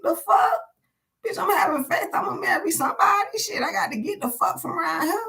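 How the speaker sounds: fed up and yelling, "I'm gonna marry somebody"; exasperated outburst. Retold or imitated. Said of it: "the way they asked me was like".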